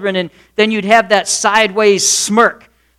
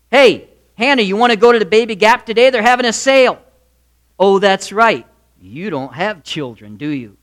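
Peninnah. Acted. Rival wife taunting the childless wife, lightly voiced jibe. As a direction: needle her with mock innocence. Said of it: "looked at the voice of Peninnah".

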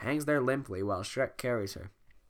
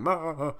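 laugh imitation; 5 semitones higher, 5 dB louder than usual. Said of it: "Shrek was the one going".

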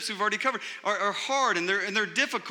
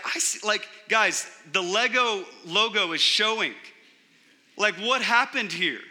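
mock parental confrontation; 3 semitones higher, 3 dB louder than usual. Dad catching kids with torn wrapping paper, mock incredulous. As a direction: confront them as a baffled parent.

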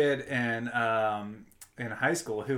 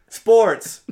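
laughing; 10 semitones higher, 16 dB louder than usual. Shown as a demonstration. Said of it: "Can you say that one more".

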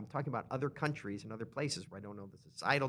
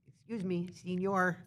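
higher-pitched mock Spanish accent; fake Spanish accent; 5 semitones higher than usual. Tourist addressing a waiter, mock Spanish accent. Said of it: "if I say it with an accent".

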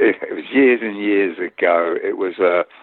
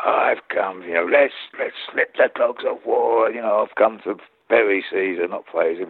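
hammed-up Shakespearean speech; mock declaiming. Actor mimicking castmates doing Mark Antony's big speech, mock declaiming. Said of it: "we was watching each other do it, you know, and it was, uh, you know, standing there".

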